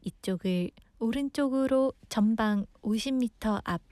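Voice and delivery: lightly imitated Korean navigation alert; GPS voice. Radio host imitating a Korean GPS for listeners, light navigation voice. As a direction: read it out like a satnav direction. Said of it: "in Korean voice".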